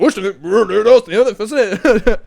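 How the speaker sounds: expressive joke delivery. Pretend. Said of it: "pretend you're making a Belly Bro joke really expressively".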